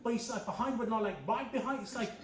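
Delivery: put-on young Londoner. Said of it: "young English person says".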